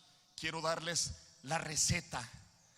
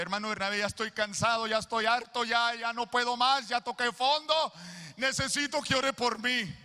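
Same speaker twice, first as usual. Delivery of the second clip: louder, slowing, pleading for help; desperate plea; 6 semitones higher, 9 dB louder than usual. Retold or imitated. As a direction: beg like you've hit rock bottom. Retelling his desperate plea to father-in-law.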